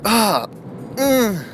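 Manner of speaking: high wincing "ah, mm"; pained groan. Acted. Viewer reacting to Thor's line, high pained groan. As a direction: groan in mock pain at a bad line. Acted wince at a bad line.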